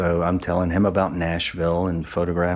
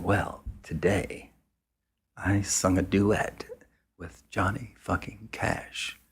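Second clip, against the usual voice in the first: awed hush; 7 dB quieter, slower than usual. Retold or imitated. A singer tells of duet, awed.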